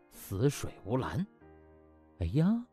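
ordinary delivery

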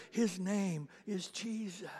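slow, hushed whisper; a slow whispered reveal of the name. Real, not acted. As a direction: breathe it out like a secret. Preacher's intimate punchline.

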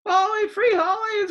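high, loud battle cry; sword-raising cry to the beetle. Acted. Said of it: "cried Scapito".

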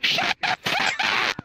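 high, loud outburst; angry shout. Pretend. Fed-up man to his teasing companions, high loud shout.

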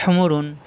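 "হুমুরুন" opening on an h pressed from the throat. Shown as a demonstration. Teacher demonstrating the throat letter, pressed h in "হুমুরুন". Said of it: "হা চাপ দিয়ে".

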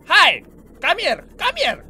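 mock-sweet taunting call. Gamer taunting a Reaper to come closer, teasing call. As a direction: coax the beast over like a pet. Taunting a sea monster in game.

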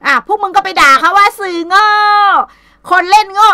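high, loud, scornful yelling; angry shout. Real, not acted. Streamer yelling at gullible viewers, angry shout. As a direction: lash out at the fools following her.

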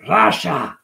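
drawn-out greeting call. Real, not acted. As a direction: hail a viewer who just arrived. Calling out to a chat arrival.

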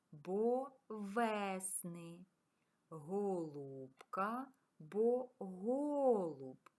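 «зимній», «весни», «голуб» drawn out slowly with the stressed vowel clear; slow example pairs. Shown as a demonstration. Teacher to pupils showing check words, slow and stressed. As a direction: stretch each check word to show the stress. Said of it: "Наприклад".

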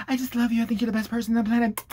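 mock an adoring young hanger-on; fawning kid. Kid gushing to his YouTube mentor, mock fawning. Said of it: "he's like".

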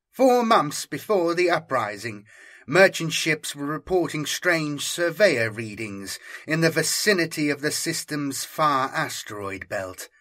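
brief the officers crisply; lightly voiced Inquisitor briefing. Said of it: "Santos continued".

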